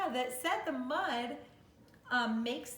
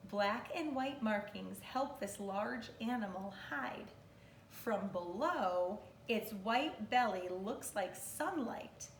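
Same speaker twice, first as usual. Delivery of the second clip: measured, expressive picture-book narration. Real, not acted. Teacher reading an animal book to kindergartners, expressive read-aloud.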